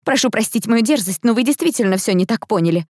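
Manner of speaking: high, anxious apology; tremulous, hurried-sounding appeal; trembling voice. A narrator's reading. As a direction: plead nervously with a superior. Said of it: "голос которой дрожал".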